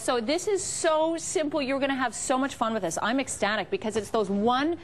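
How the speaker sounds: upbeat sales pitch; home shopping host. Acted. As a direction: sell it like a TV host.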